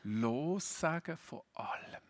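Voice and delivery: slow, weighty Lossagen von allem; slow, held-back Lossagen von allem; slow and quiet. Shown as a demonstration. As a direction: let Lossagen von allem sink in slowly. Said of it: "Jesus setzt noch eins oben drauf".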